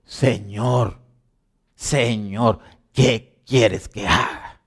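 slow, drawn-out plea; reverent submission. Retold or imitated. Preacher voicing Paul's answer to Jesus, slow reverent submission. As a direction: stretch each word in humble surrender. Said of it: "Le dijo".

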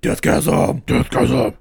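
loud gleeful cheer of the title; excited shout. Acted. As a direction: shout it out like a metal fan.

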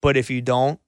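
soft, sincere reassurance to her; supportive boyfriend. Pretend. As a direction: gently promise to stand by her. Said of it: "You could say".

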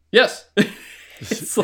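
high, loud burst of mock delight; excited yes. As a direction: jump on it like an eager developer. Acts developers' delight at Bond offer.

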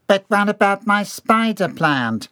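high, slow, plaintive wail; whimpering. A narrator's reading. Employee dragged out, fretting over plant, whimpering. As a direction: whimper it pleadingly. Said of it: "John continued to whimper".

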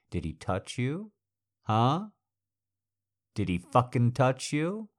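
rising jealous demand; jealous anger. Acted. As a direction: press harder each time. Jealous interrogation building.

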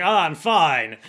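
drawn-out mock reassurance; character impression. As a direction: play up the brave insistence. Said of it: "that's his voice".

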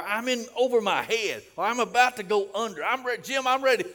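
high, loud shouted plea; acted cry of desperation at full volume; desperate outcry. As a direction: imitate someone shouting that they are overwhelmed. Acts out congregants' desperate pleas.

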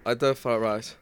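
hammed-up Asian accent, "fried rice" said as "fly lice"; a cheap Asian-accent joke voice; mock Asian accent. Joking with podcast friends about fried rice, mock Asian accent. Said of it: "fried rice in an extremely Asian accent".

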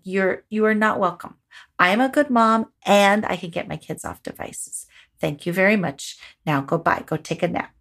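settled, firm and kind, "good" stressed; calm confidence. Shown as a demonstration. Mom showing how to dismiss the critic, calm authority. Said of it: "Be confident. Be like".

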